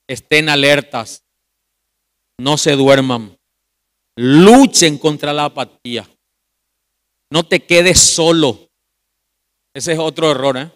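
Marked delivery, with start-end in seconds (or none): 0.1-8.7 slow exhortation. Real, not acted. Preacher exhorting the church.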